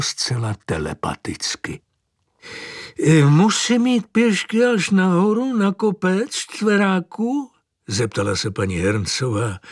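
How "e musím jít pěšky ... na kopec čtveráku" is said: put-on high, astonished old lady; old woman marvels at the horse, high and amazed; old woman's voice. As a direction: pitch up into a fussy old woman's voice. Mrs Herncová voiced by reader.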